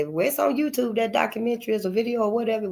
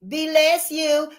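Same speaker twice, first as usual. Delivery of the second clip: "Be less you" drawn out high and slow, each word apart; split as be less you; 9 semitones higher, slower than usual. Shown as a demonstration. Breaking down the blessing to show its meaning, slow and high. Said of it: "You might as well say it for what it is".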